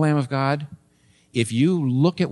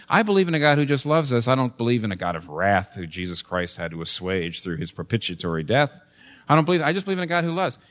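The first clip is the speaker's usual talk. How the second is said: imitating a skeptic. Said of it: "like a lot of people in New York say".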